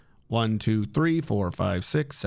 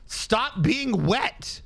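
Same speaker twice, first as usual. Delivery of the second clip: pleading; 7 semitones higher, much slower than usual. Real, not acted. Scolding the water.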